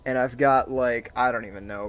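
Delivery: overstimulated. Real, not acted. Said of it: "I feel like I'm so overstimulated right now".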